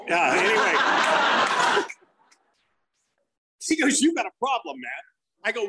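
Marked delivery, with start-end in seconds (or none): 4.0-5.0 higher, livelier challenge; retold confrontation. Comic retelling neighborhood saver at mom's door, higher challenge.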